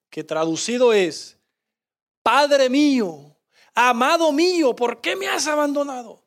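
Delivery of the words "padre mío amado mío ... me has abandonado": voice of agony. Acted. Preacher voicing Jesus on the cross, a gentle voice of agony. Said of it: "lo dijo con una voz de agonía".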